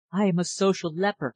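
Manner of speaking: breathless, high confession; panting. Acted. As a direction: pant it out, shaken. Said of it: "she panted".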